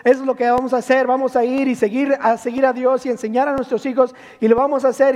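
mock enthusiastic resolution; fired-up vow. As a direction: sound like a congregation all stirred up. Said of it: "nos motivamos y decimos".

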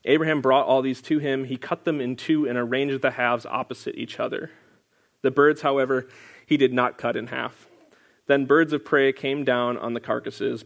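measured, solemn Bible reading; scripture reading. Acted. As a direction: read the verses out with weight. Reads Genesis verses aloud.

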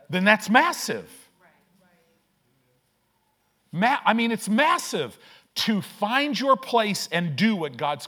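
preacher's rising exhortation; preaching. Acted. Preacher urging the congregation, building preaching.

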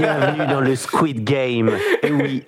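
slow, laughing sinister welcome; sinister game host. Pretend. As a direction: welcome them like a creepy game master. Game host welcomes, Squid Game parody.

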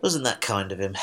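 blocked nose, nasal voice; talking through blocked sinuses. Real, not acted. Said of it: "why do I sound so nasal".

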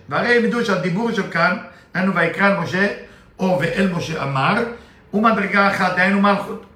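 rattling off the Hebrew verse quickly; fast Hebrew recitation; rapid text reading. Acted. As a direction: read the verse at speed, as in study. Reads Zohar text fast.

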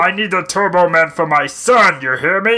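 loud, forceful Arnold accent impression; emphatic mock Arnold accent; Schwarzenegger accent. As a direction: demand it in a hammed-up Arnold accent. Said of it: "Arnold Schwarzenegger".

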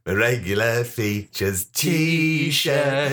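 very slow, grand intro voice; slow announcer voice. Pretend. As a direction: drawl it out like a TV feature opener. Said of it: "Steve's regular feature".

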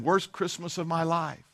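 put-on a soft, glum sulk from a let-down child; glum little boy. Boy on the porch tells the pastor, soft and glum. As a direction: sigh it out like the worst day ever. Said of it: "just sad as can be".

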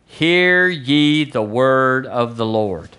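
slow, drawn-out herald's call; solemn proclamation. Acted. Preacher proclaims Elisha's words to the church, solemn and drawn out. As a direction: stretch each word like a public decree. Proclaims the prophet's scripture line.

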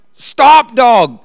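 sharp high call to stop the dog. Retold or imitated. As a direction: yell after the running dog. Calling to the dog.

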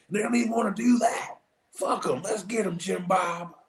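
mock racist Kentucky fan.

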